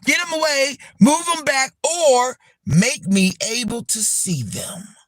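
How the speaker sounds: fervent plea. Acted. Impromptu plea to God against haters.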